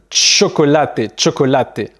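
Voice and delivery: chocolate opening on tch and ending on a sounded é; Spanish CH as tch. Shown as a demonstration. Teacher showing CH to a learner, chocolate with tch. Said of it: "une prononciation comme on tch".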